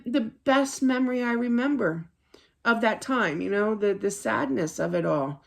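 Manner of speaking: ordinary delivery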